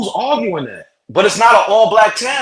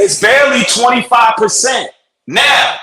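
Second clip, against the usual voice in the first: yelling; 5 semitones higher, slower than usual. Real, not acted. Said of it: "Why are you yelling".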